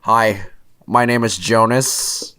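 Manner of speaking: slow, measured mock introduction; lightly put-on careful politeness; white person impression. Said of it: "That was my white person impression".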